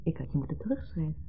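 whisper. Acted. Zachte bekentenis aan oude minnaar.

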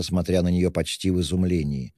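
plain reading voice

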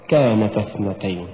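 كانتا with no push on ن; wrong reading. Shown as a demonstration. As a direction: say "كانتا اثنتين" as if it were كانت. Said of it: "ولا تقرأ".

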